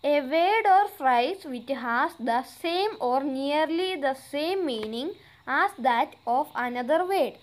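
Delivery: slow, deliberate read-aloud of an English exercise; careful dictation pace; slow textbook reading. Acted. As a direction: read each word out clearly for the class. Reads definition slowly.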